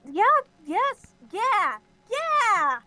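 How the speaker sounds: high, eager burst of yeahs; eager yes. Acted. Moongaze eagerly agreeing to confront Flame Spots.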